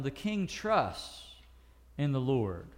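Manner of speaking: slow, deliberate Bible reading; solemn slow reading of the psalm; scripture reading. Acted. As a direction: read the verse slowly and reverently.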